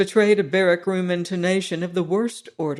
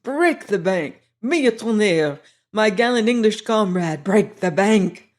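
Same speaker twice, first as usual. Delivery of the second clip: lightly voiced veteran, louder and ecstatic; old soldier crying out; 2 semitones higher, 4 dB louder than usual. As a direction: push the gambler on in a mild rough cry. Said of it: "cried my military friend".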